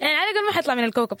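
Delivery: amused and speaking fast; laughing. Real, not acted. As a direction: rush it out through a laugh. Joking that secret stays on planet.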